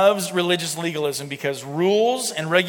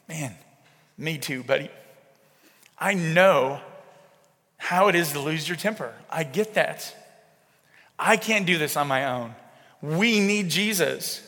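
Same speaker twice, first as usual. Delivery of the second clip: softer, gentle voice, slowing on the last words; understanding father; 3 dB quieter than usual. Retold or imitated. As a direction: comfort a child who lost his temper, kindly. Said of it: "I am way more understanding".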